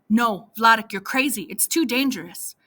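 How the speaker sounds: loud sharp refusal; protesting. Acted. Anya refusing Vladek's Hungary plan, loud protest. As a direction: shut the idea down.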